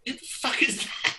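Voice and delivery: hissed under the breath, high and aghast; shocked whisper. Retold or imitated. Bandleader whispering in shock at the surprise drummer. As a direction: whisper it in disbelief so the crowd can't hear.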